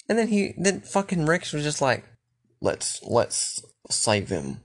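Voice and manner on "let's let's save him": slow, low, soft mock Australian voice; Australian accent. Rick pleading to spare Negan, slow mock Australian accent. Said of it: "I keep going Australian".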